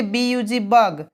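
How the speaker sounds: "बग" closed on a g sound, after its letters; final hard G. Shown as a demonstration. Teacher spelling an example, "बग" ending on hard g. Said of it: "तो हमेशा उच्चारण ग होता है".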